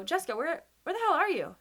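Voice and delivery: retold caller, rising up to a sharp demand; angry caller. Caller demanding where Jessica has gone, angry. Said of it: "they go".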